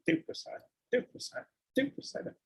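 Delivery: breathy whispered repetition; whispered urging. Retold or imitated. Preacher quoting Mahaprabhu urging devotees to eat, whispered. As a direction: urge it under your breath.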